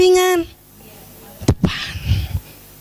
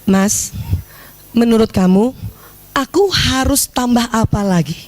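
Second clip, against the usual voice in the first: humble gentle ask; 5 semitones lower than usual. Shown as a demonstration. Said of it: "Dan sekarang tanya".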